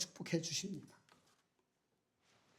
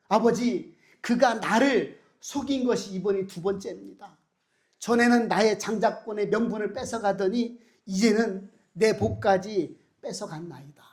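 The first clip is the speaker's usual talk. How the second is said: lament; 4 dB louder than usual. Acted. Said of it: "한탄을 하죠".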